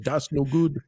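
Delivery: lightly imitated troll voice. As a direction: echo it in a lazy troll voice. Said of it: "was that a troll voice when you said".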